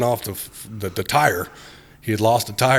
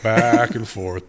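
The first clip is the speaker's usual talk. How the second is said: slow drawn out; much slower than usual. Shown as a demonstration. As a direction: back and forth stretched slowly.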